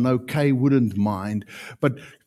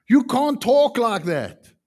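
louder, slower firm telling-off; firm rebuke; 9 semitones higher, 4 dB louder, slower than usual. Retold or imitated. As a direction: set her straight firmly. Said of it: "I just said to her".

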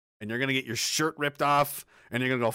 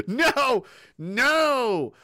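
loud refusal; 10 semitones higher, 5 dB louder than usual. Real, not acted. Reacting to Klaus Schwab.

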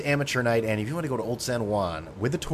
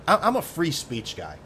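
smug; 5 semitones higher than usual. Shown as a demonstration.

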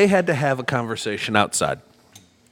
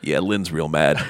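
put-on slow, lower drunken repeat; drunk Justin; 9 semitones lower than usual. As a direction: drag it out like a drunk repeating himself. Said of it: "And I'm like".

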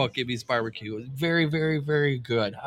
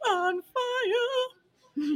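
laughing. Real, not acted. Laughing about burned mouth.

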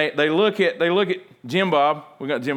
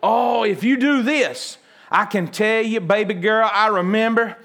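rambling grandma; 3 semitones higher than usual. Retold or imitated.

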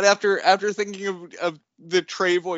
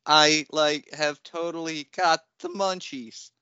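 slow drawling stoner Shaggy voice; lightly voiced Shaggy, lazy and slow; Shaggy impression; slower than usual. Joking about knockoff toys in a light Shaggy voice. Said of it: "the Shaggy impersonation".

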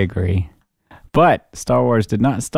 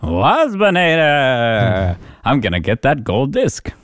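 slow, stretched insect robot voice; Waspinator voice; 3 semitones higher, slower than usual. Retold or imitated. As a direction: drag out the name like a robot wasp. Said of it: "And then the Waspinator's like".

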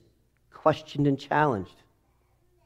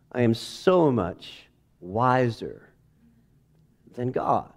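sarcastic; 3 semitones lower, slower than usual. Acted. Ironic self-mockery.

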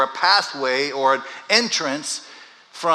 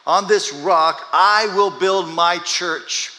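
loud, slow, higher pronouncement; louder and slow, each word weighed; slow proclamation; 5 semitones higher, 6 dB louder, much slower than usual. Acted. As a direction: declare it like a promise. Preacher proclaiming Jesus' words.

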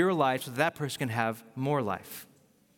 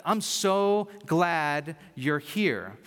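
very slow, sincere welcome; heartfelt welcome; much slower than usual. Retold or imitated. Blessing someone who has arrived, slow and heartfelt. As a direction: savor each word, stretching it out.

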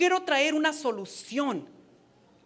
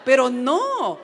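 laughing through the words; 5 dB louder than usual. Real, not acted. Wife joking to women about her husband, laughing. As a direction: chuckle as you tell the joke.

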